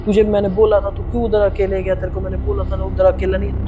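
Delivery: retold friend panicking on the phone, urgent; panicky friend. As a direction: mimic a friend in a mild panic. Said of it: "एकदम से वो panic करने लगा".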